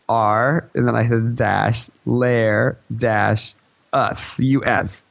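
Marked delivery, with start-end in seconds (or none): 0.1-0.7 spelling out name. Retold or imitated. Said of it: "can I spell out my name". 1.3-3.5 spelling out name. Retold or imitated. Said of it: "can I spell out my name". 3.9-5.0 slow, separated "us, U S"; spelling out name. Retold or imitated. Player spelling the name for a guild boss, deliberate. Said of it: "can I spell out my name".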